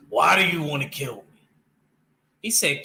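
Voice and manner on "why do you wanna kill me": a hint of a gruff Christian Bale Batman, a bit louder; lightly imitating Batman asking the Joker why he wants him dead. Batman demanding why the Joker wants to kill him, in a light Christian Bale imitation. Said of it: "In my Christian Bale accent".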